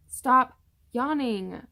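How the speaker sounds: exasperated command. Real, not acted. Pregnant vlogger scolding herself for yawning, loud and slow. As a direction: scold your own yawning, dragging each word. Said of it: "Five times".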